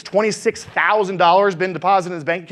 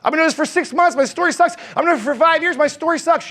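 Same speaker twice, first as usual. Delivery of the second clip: mock whiny complaining agent, higher; 4 semitones higher than usual. Agent in the audience whining his story sucks. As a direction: whine like a doubting agent. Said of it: "some of you guys go".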